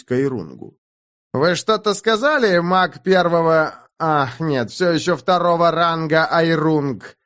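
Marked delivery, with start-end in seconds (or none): 1.3-7.2 slow, poisonous mock politeness; venomous. A narrator's reading. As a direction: drip venom on every word. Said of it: "ядовитым голосом спросил".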